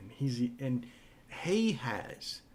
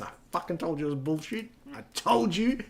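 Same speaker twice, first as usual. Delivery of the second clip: fast, gleeful I-told-you-so that climbs higher and louder; father-in-law gloating at the moon documentary, gleeful and fast; 6 semitones higher, 4 dB louder than usual. Retold or imitated. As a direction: crow it like you were right all along. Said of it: "the glee".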